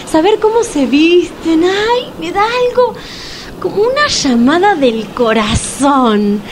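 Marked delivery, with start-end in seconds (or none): 1.6-6.4 higher, swooning sigh; mock swoon. Woman swooning over candidates, higher voice. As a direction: swoon like a lovesick fan.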